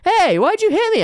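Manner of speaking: high, loud outraged shout; angry yell. Acted. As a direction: yell at him for the hit. Acted quarrel between prisoners.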